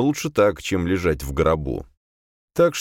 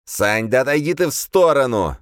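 urging demon; 7 semitones higher, 4 dB louder than usual. A narrator's reading. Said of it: "повторил демон".

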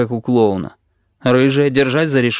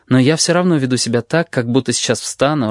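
plain reading voice

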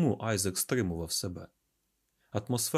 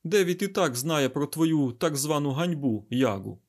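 raised, higher-pitched retort; barking; 4 semitones higher, 4 dB louder than usual. Acted. Scientist snapping at the ashamed garuda, barking retort. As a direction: bark it back impatiently. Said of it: "гаркнув Айзек".

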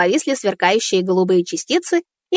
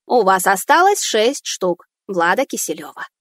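robot voice. Acted. Robot speaks.

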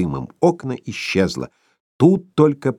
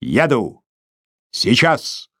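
heavy voice; much slower than usual. A narrator's reading. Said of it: "тяжкий голос".

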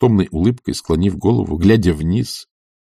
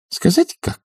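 high, slyly teasing question; playful taunt pitched up; slower than usual. A narrator's reading. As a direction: tease him with a sly lilt. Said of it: "лукаво дразнила она".

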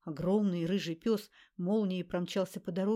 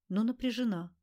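ordinary delivery, nothing marked

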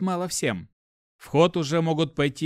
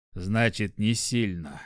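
gloomy; 4 semitones lower, slower than usual. Acted. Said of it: "хмуро произнёс".

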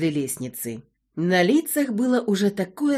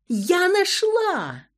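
much higher, loud triumphant cry; shouting with all her might; 12 semitones higher, 4 dB louder, much slower than usual. A narrator's reading. Klava finds the grave in the crypt, shouting with joy. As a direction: yell the find at the top of your voice. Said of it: "закричала, что есть мочи".

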